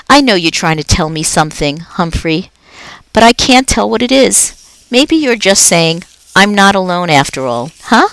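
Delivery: a jolly night janitor chatting to a pet; upbeat, chatty custodian; Aldo the cheerful janitor. Acted. Aldo to hamster.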